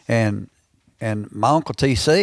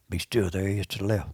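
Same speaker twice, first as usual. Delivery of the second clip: hushed warning; 6 dB quieter, faster than usual. Retold or imitated. Granddad repeats hushed warning.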